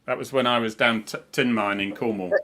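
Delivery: put-on light Yorkshire accent; a hint of broad Yorkshire. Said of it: "I'm saying it in a Yorkshire accent now".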